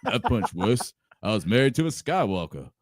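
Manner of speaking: tough-guy Rocky impression; Robot Chicken Rocky voice. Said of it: "like, the robot chicken Rocky voice".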